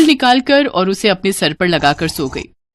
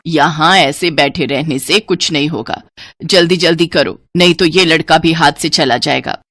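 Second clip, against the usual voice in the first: taunting mother; 5 semitones lower than usual. Acted. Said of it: "ताने मारना शुरू कर दिया".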